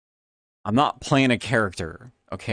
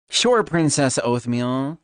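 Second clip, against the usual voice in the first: teasing admirer; 3 semitones higher, 4 dB louder, slower than usual. Retold or imitated.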